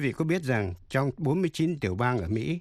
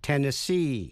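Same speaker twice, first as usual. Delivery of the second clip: "Tennessee" stressed on final SEE; last-syllable stress; 2 semitones higher than usual. Shown as a demonstration. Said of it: "Nhấn mạnh vào vần cuối C". ("Tennessee" nhấn vào vần cuối SEE)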